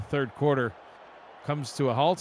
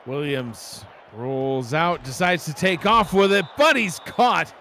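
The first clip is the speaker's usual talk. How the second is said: excited play call; 5 dB louder, slower than usual. Real, not acted. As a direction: call the sack with rising energy. Live play call, sack.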